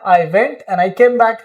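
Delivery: slow, careful sentence; slow dictation. Shown as a demonstration. Teacher giving the English version, slowly. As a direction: speak it slowly for learners to copy. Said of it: "इस तरह से मैं गया और वापस आया।".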